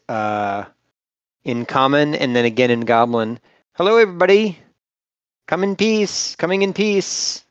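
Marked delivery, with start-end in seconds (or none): 3.7-7.4 raised, higher friendly call. Acted. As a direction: call out a peaceful greeting. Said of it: "I'll call out".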